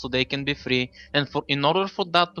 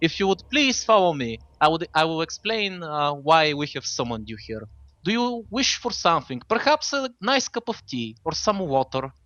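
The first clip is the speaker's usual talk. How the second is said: courteous British-seeming robot butler. Acted. Robot welcomes summoned guests at the door, courteous role voice. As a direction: play a courteous robot host, pitched up.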